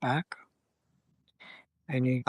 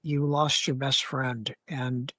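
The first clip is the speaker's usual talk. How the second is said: calm reassuring vet. Shown as a demonstration. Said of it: "my job to be able to take and go".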